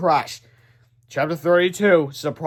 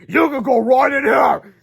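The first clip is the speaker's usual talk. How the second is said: high, slow, louder mock-kind villain; sly villain; 9 semitones higher, 8 dB louder, slower than usual. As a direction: lure him in slyly.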